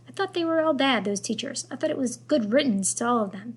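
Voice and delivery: French grandmother. Acted. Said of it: "thick French accent".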